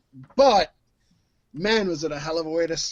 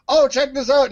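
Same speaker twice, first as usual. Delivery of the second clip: loud, higher-pitched mock enthusiasm; acted excitement; 7 semitones higher, 5 dB louder than usual. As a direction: eagerly show something off. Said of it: "when you're like".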